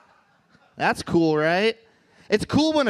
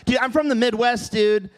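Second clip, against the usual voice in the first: mock defiant; 4 semitones higher than usual. Real, not acted. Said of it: "That's how we say milk".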